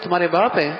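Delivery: تمہارے باپ lifted as a question, dropping on ہیں. Shown as a demonstration. Preacher asking the child who this man is, questioning. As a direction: ask it, lifting باپ. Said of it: "استفہام اور سوال بھی ہو".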